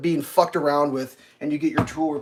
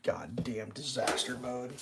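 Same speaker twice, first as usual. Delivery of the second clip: hushed, slow under-the-breath whisper; soft whispered curse; whispered aside; 5 semitones lower, 15 dB quieter, slower than usual. Real, not acted. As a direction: mutter it to yourself. Muttered aside to self.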